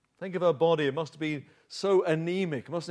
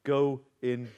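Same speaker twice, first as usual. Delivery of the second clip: tender; much slower than usual. Acted. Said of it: "The tenderness in his voice?".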